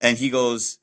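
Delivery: ordinary talk, nothing marked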